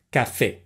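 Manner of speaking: "Café" stressed on its last syllable; stress on final E. Shown as a demonstration. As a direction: put the weight on the "fé" of "Café". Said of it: "the E has the accent, which means you stress that syllable".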